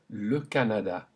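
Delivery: le Canada with open French a sounds. Shown as a demonstration. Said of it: "After me".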